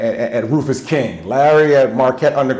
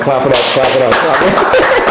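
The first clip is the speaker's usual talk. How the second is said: rising, louder call for applause; hype call; 4 dB louder than usual. Real, not acted. Host hyping the audience to clap for the guest, excited call. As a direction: get the crowd clapping, building up.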